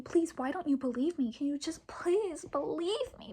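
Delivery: mock-tearful pleading, rising as it goes; whiny imitation of a sobbing plea; retold bawling. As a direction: re-enact begging to be believed. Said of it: "I was bawling".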